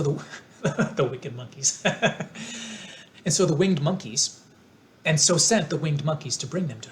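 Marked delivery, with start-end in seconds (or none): 0.0-1.8 laughing. Real, not acted. Reader laughs over a slip. 1.8-2.9 high giggle. Real, not acted. Laughs at her own slip.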